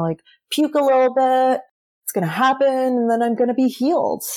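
breezy confidence, lifted in pitch; naive optimism. Retold or imitated. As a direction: list the plan as if it's that easy. Acts out naive optimism before first ceremony.

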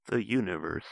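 synthetic speech-device voice; Stephen Hawking voice. Pretend. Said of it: "like Stephen Hawking".

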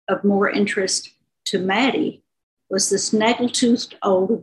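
measured, unhurried novel reading; story reading. A narrator's reading. Author reading her novel to the interviewer, calm storytelling. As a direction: read the scene aloud to listeners.

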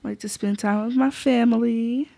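slightly affected, drawn-out self-introduction; put-on introduction voice. Real, not acted. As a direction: list hobbies slowly, in a mildly put-on voice. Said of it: "why am I talking in this voice".

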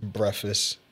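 Breakfast said as brefast; mock breakfast. Shown as a demonstration. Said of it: "People that say breakfast".

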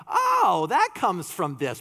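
mock-amazed Oh, that comes from this; sudden recognition. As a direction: act out discovering the source. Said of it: "this is just filled with all these like".

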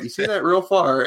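high, lightly mocking host voice; mock Joe Rogan. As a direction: lift the pitch and tease the guest. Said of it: "And then he's like".

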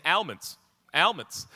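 put-on repeated AL-monds in the ad's accent; commercial character's accent. Man who keeps saying it, in the ad's accent. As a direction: mimic the accented insistence. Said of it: "he keeps saying".

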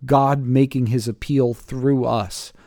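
measured public Bible reading with firm phrase openings; scripture reading. Acted. Pastor reading the passage to the group, measured scripture reading. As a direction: read it out deliberately, phrase by phrase.

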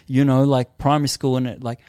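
put-on lightly high voice airing old shame. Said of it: "I'm like".

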